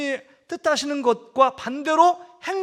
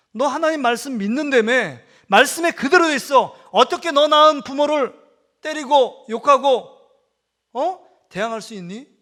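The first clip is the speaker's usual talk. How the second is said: stern scolding; 6 dB louder than usual. Retold or imitated. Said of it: "정색을 하면서 이렇게 얘기하고".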